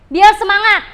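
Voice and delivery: loud rallying call to the class; energetic shout. Shown as a demonstration. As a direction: pump the class up, loudly.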